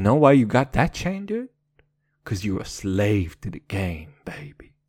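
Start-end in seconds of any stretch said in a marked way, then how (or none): 2.2-4.8 low, sultry gangster purr; sexy deep voice. Acted. Gangster rapper persona, deep sexy voice. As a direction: drop into a sexy low rap voice. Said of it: "this sexy, deep-ass voice that I'm doing".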